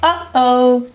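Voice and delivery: "uh-oh." broken by a catch in the throat; glottal stop. Shown as a demonstration. Showing learners the stop with a familiar phrase, glottal stop. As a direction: cut sharply between "uh" and "oh". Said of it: "is a glottal stop".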